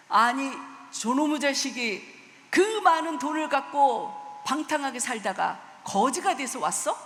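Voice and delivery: a parent half-heartedly telling off a wastrel son; scolding father. Retold or imitated. Father scolding the son who came back a beggar, mock angry. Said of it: "하면서 분명히 혼낼 거예요".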